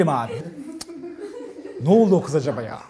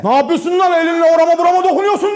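loud angry yell; 5 semitones higher, 3 dB louder than usual. Retold or imitated. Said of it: "Herkesin duyacağı sesle".

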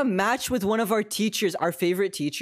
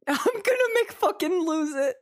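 high-pitched, helpless laughing voice; losing it laughing; 11 semitones higher than usual. Real, not acted. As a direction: squeal it through laughter.

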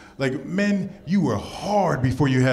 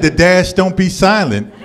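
matter-of-fact sassy woman; 3 semitones higher, 9 dB louder, slower than usual. Retold or imitated. Woman explaining name.

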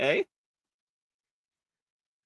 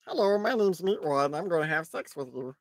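lightly voiced cartoon meatball; a hint of a childlike cartoon voice; Meatwad; 4 dB quieter than usual. Streamer doing a joke impression for viewers, lightly voiced. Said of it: "sounds like Meatwad".

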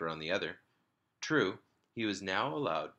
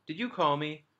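put-on little boy; 8 semitones higher, 4 dB louder than usual. A narrator's reading. Little boy asking mother, repeated.

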